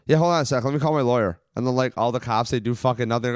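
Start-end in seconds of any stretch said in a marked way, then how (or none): 0.1-1.4 cocky. Retold or imitated. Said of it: "my favorite move is to go".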